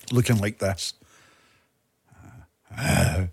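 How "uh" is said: lightly voiced De Niro menace; low-key tough guy at the mirror; De Niro impression. The speaker's final take on the De Niro mirror line. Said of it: "Robert De Niro, Taxi Driver".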